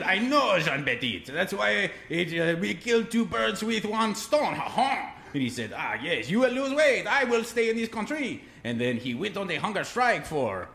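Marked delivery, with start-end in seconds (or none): 0.0-5.1 put-on high, loud, laughing French accent; mock French accent. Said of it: "I'll tell it in his voice". 5.8-8.4 high, loud hammed-up French voice; mock French accent. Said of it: "I'll tell it in his voice".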